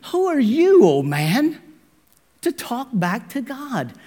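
high loud rebuke. Retold or imitated. Paul rebuking the man who talks back, sharp loud rebuke. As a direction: put him in his place. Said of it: "his response".

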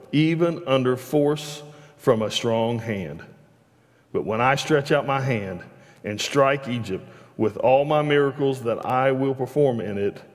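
steady, measured Bible reading voice; scripture reading. Acted. Preacher reading Exodus to the congregation, measured and steady. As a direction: read the passage out to the congregation. Reads scripture aloud from the pulpit.

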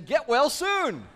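high, slow, drawn-out get-well wish; lightly mocking card voice; balloon message. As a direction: read the balloon like a chirpy card. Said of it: "a balloon saying".

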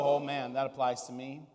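soft, humbled self-recognition; a quiet "oh man, that's me"; said as a hint of conviction, turning it inward; humble realization. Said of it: "do you read it and go".

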